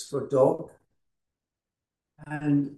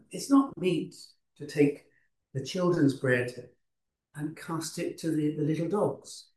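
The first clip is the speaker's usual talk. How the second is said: very gentle. Shown as a demonstration. Preacher shows how he believes Jesus spoke to the woman, gently. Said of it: "in a very gentle way".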